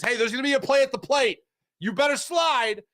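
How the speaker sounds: high-pitched mock warning to a runner; telegraphing a warning. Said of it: "He's not telegraphing to Stallings".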